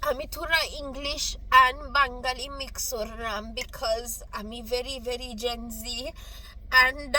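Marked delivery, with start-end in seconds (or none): 0.1-5.8 put-on jokey Bengali accent. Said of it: "my jokey Bengali accent".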